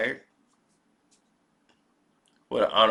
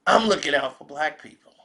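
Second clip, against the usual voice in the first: loud, raised voice of their secret thought; mock white America; 5 semitones higher, 7 dB louder than usual. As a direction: blurt out the caricature's real thought, high and loud. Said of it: "what they're thinking is".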